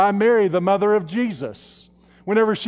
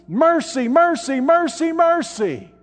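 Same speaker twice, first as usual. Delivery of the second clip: each mercy pitched a little higher; building repetition; 6 semitones higher than usual. Real, not acted. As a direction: build the word up, step by step. Repeated word building emphasis.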